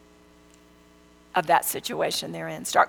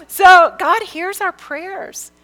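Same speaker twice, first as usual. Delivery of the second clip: laughing still; 8 semitones higher, 8 dB louder, slower than usual. Real, not acted. Laughing into the point.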